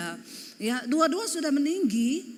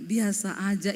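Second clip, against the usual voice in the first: lower-pitched husband's reply; suami menegur kalem; 5 semitones lower than usual. Retold or imitated. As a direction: say it low and unexcited. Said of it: "Dia bilang". (suara suami, rendah dan datar)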